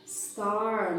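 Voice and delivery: "Star" ending on a curled R. Shown as a demonstration. Teacher naming the shape in English, curled R. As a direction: hold the retroflex R at the end of "Star". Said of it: "Ou o R enroladinho?".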